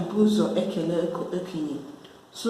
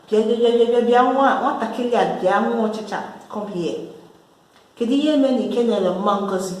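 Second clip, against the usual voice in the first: mock scolding call, louder and higher; mother scolding child; 3 semitones higher, 3 dB louder, faster than usual. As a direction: summon the child like an annoyed mom. Mom calls child to scold.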